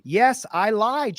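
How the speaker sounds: slow, mocking quote of Dana owning up; mock admission. Narrator mocking Dana's admission, slow and sneering. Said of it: "she admits".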